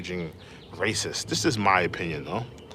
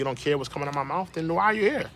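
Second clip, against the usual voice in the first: higher, sharper, telling a viewer off; irritated scolding; 6 semitones higher, faster than usual. Real, not acted. Streamer scolding a rude chatter, irritated and raised. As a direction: call out the troll in frustration.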